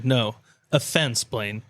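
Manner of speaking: a slow, friendly no offense with the name dropping quiet. Shown as a demonstration. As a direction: drawl it out gently so it lands friendly. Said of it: "it's just a different inflection".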